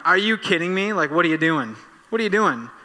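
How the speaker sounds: hammed-up couch fan yelling at the screen; mock yell at tv. Fan on the couch yelling at the TV, mock outrage.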